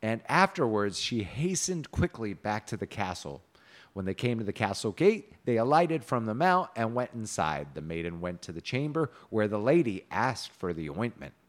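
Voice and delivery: measured storybook reading; story narration. A narrator's reading. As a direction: read the tale aloud with old-fashioned cadence.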